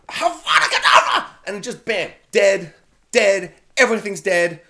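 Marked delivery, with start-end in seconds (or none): 0.1-1.3 high, loud hammed-up curse with a laugh; mock spell cast. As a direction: fling the killing curse playfully. Casting the killing curse.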